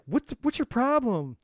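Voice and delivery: a fed-up rescuer scolding the victim, high and exasperated. Retold or imitated. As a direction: demand to know why they can't see it. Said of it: "the rescuer gets pissed off and it's like".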